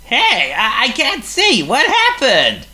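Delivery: high, loud, startled cry; blinded and flustered. A narrator's reading. Mud in his face.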